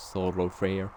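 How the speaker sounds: Thoroughfare said quickly in a hammed-up English accent; a jokey English accent on Thoroughfare; mock English accent. Shown as a demonstration. A French gamer mocking his own English accent, hammed-up English accent. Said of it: "Magnifique accent anglais".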